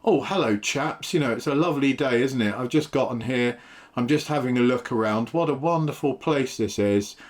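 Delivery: cheery, exaggerated posh English accent; best English accent. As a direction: play the overly polite posh English gent to disarm them. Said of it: "put on my best English accent".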